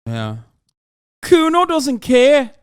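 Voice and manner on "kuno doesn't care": very high, loud, drawn-out squawk; Kuno. Acted. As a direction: yell it slowly in a high character voice. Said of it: "a character from Disco Elysium".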